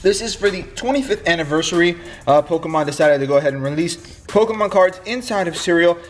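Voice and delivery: blocked nose after nose surgery. Real, not acted. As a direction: speak through a stuffed-up nose. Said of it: "I'm sorry if I sound a little weird. I am fresh off of nose surgery".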